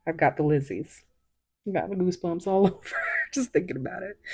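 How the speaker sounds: usual speaking voice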